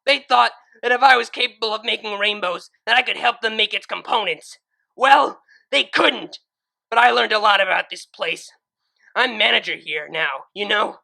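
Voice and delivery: high, loud furious screaming; seething scream. Acted. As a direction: scream back with pure hate. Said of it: "screamed in return".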